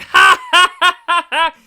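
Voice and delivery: loud high fake guffaws; mock audience laughter. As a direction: ham up a crowd laughing. Imitating audience laughing at Cooper.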